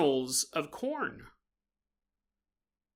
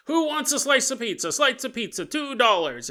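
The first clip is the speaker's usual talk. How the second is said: higher, a street vendor calling out prices; hawking vendor; 4 semitones higher than usual. Acted. Street vendor hawking pizza to passers-by, mock hawker call.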